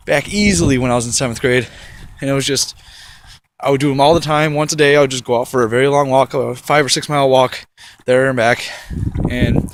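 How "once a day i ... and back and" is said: out of breath from walking; panting between words while walking. Real, not acted. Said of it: "sorry if it sounds like I'm panting a lot".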